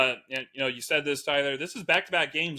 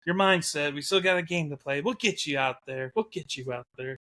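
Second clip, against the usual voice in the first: consoling coach. Retold or imitated. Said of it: "their coach is just sitting there just like".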